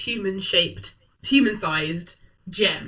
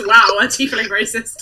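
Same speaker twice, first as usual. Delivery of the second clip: laughing quote; 2 semitones higher, 7 dB louder than usual. Retold or imitated. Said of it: "Annabelle in chat just goes".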